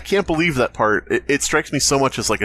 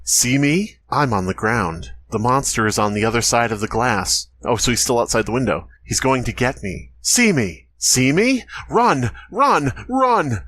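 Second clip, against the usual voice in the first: hammed-up spooky narrator, rising panic; creepypasta narrator. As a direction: build from eerie to frantic, then slow dread. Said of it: "read it like a shitty creepypasta narrator".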